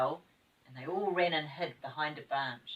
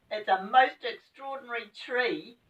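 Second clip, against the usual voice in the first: with a giggle; 6 semitones higher, 6 dB louder than usual. Acted. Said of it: "said Fanny with a giggle".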